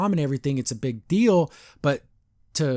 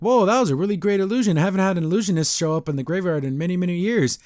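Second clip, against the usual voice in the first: higher-pitched, lightly acted amazement; impressed greeting; 5 semitones higher, faster than usual. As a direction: imitate a delighted stranger praising a trick. Illusionist pops out impressed, retold.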